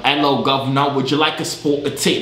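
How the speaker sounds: hammed-up British greeting; playful imitation British English; mock British accent. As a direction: put on a cheeky British accent. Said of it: "I was doing my British accent".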